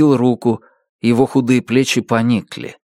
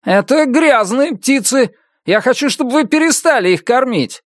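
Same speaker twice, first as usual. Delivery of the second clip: disgusted neighbor; 13 semitones higher than usual. A narrator's reading. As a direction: spit out the word birds. Neighbor complains about crows. (брезгливый сосед)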